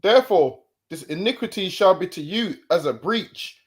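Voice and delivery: scripture reading. Acted. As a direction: proclaim the verse to the listeners. Reads scripture aloud.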